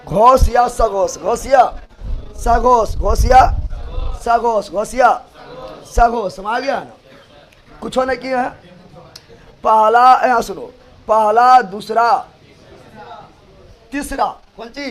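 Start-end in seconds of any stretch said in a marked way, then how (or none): 0.1-6.3 loud classroom drill. Shown as a demonstration. Teacher drills terms loudly. 9.6-11.6 calling class to attention. Real, not acted. Teacher calls attention.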